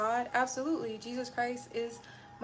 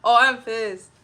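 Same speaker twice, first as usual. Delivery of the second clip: louder, slow, hammed-up fury breaking through; mock pissed-off outburst; 11 dB louder, much slower than usual. To her stream chat, dropping the gratitude act, loud slow pissed. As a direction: let the buried anger burst out, half laughing. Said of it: "down here on this bookshelf".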